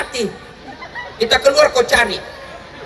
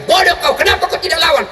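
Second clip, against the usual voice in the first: mock scolding wife; 6 semitones higher than usual.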